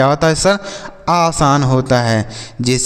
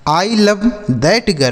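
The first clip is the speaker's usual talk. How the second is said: slow model sentence; 4 semitones higher, much slower than usual. Shown as a demonstration. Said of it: "इस तरीके से इसे बोल सकते हैं".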